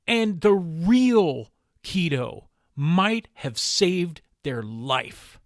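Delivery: impassioned plea with heavy emphasis; pained, emphatic conviction, slowing toward the end; sad, frustrated passion. Real, not acted. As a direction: stretch the key words in earnest frustration. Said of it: "That's what you're hearing in my voice".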